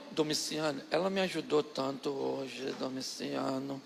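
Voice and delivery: bem mais suave e lenta, lembrando a juventude; voz mansa. Retold or imitated. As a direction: seduza o marido com doçura. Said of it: "o tom de voz da minha tia mudou". (a tia relembra a juventude, mansa e suave)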